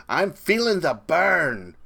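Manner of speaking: slow, high, loud mock chant of a millennial fan. Ranting vlogger mocks millennial Bernie fans, slow high loud sneer. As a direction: sneer it out like a hipster chanting the slogan. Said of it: "all these millennials running around".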